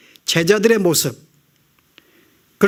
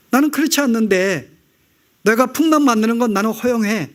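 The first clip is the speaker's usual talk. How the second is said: Jesus speaking; 2 semitones higher than usual. Retold or imitated. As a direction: speak as Jesus gently correcting his disciples. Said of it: "이야기합니다". (제자들을 바로잡는 예수님의 차분하고 단호한 목소리)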